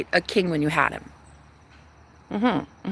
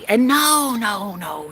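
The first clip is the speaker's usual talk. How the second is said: whisper; slower than usual. Real, not acted. Whispered taunt continues.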